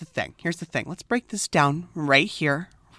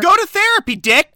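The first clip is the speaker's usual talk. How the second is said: loud, raised jab at the character; yelling; 11 semitones higher, 6 dB louder than usual. Real, not acted. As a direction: shout it at the screen.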